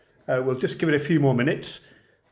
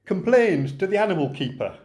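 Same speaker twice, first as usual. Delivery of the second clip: light Lancashire lilt, reciting a comic monologue; a gentle Lancashire storyteller reading a verse tale. Acted. Poet reciting The Lion and Albert to online folks, mild Lancashire lilt. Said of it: "my best Lancashire voice".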